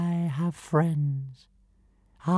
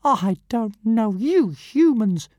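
fuming tiny dragon; 3 semitones higher, 5 dB louder than usual. Acted. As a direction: huff it out, deeply insulted. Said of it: "fumed Zigarastika, hugely offended".

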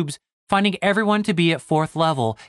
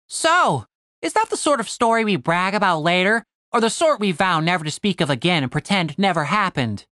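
higher-pitched, tentative joker; Tim, testing the waters; 3 semitones higher than usual. Acted. Tim tests Cooper's mood, tentatively joking. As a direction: open high, then ease down.

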